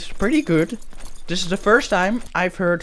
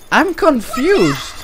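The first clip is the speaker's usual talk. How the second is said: drawn-out confusion; 6 semitones higher, much slower than usual. Acted. Puzzled by strange game voice.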